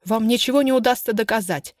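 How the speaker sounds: hysterical shout. Acted. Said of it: "истерично выкрикнула она".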